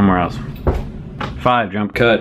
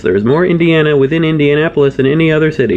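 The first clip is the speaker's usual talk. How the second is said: excited; 5 semitones higher, faster than usual. Acted. Excited fast rant.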